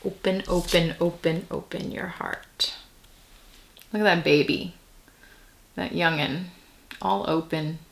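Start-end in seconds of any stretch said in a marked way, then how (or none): 0.0-2.7 soft coaxing. Acted. Coaxing the listener to open up.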